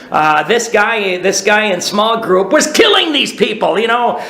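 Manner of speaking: half-shouted, heated complaint about the guy; retold angry outburst. Venting to his friend Eric about the guy, half-shouted anger. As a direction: vent the anger, voice pushing up and out on killing.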